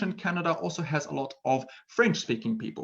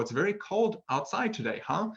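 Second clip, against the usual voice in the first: American-style tag question; 8 semitones higher than usual. Shown as a demonstration. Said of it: "instead of saying".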